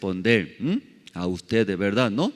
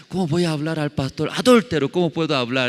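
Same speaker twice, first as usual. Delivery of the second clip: timid churchgoer; 5 semitones higher, 3 dB louder, faster than usual. Pretend. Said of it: "Alguien dice".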